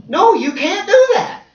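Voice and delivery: high, loud, drawn-out no; emphatic refusal. Acted. God saying no to you, emphatic.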